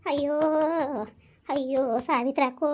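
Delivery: keen for the lost son; wailing lament. Acted. Mother wails to Savitrakka over her missing son, weeping.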